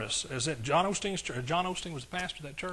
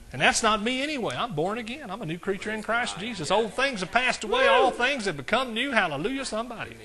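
raised, higher-pitched declaration; fervent preaching; 6 semitones higher, 3 dB louder than usual. Real, not acted. Preacher declaring his new birth to the church, fervent. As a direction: proclaim it to rouse the congregation.

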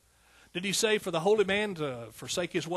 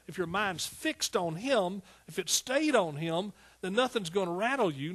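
fervent preaching; 5 semitones higher than usual. Real, not acted. Preacher assuring believers nothing will shake them, fervent preaching. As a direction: drive each promise home rhythmically.

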